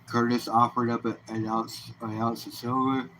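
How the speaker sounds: words stretched through a yawn. Real, not acted. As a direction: talk mid-yawn. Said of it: "Excuse me for the yawn".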